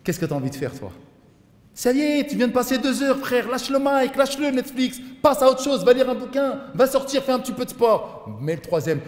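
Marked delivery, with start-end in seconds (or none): 1.7-8.4 loud orders. Acted. Preacher ordering to stop Netflix.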